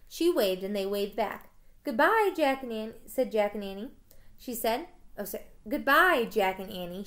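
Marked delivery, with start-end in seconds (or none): 1.8-2.9 high, raised farewell, easing off on the names; calling goodbye. Acted. 5.7-7.0 raised parting call, then settling; calling goodbye. Acted. Farewell called, line read afresh.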